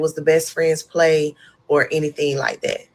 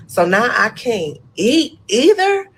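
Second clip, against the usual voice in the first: dismayed; 7 semitones higher, 4 dB louder, slower than usual. Retold or imitated. Realizing she can't eat.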